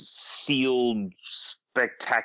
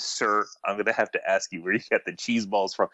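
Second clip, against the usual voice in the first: mock-solemn, understated official request; most serious tone; 3 semitones lower than usual. Judge recalls questioning the snack taker, utterly serious. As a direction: say it deadpan, as seriously as possible. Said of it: "in the most serious tone of voice I could".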